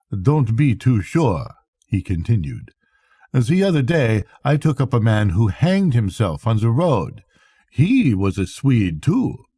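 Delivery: a weathered captain, matter-of-fact about death; hint of a Swedish captain, dry and grim.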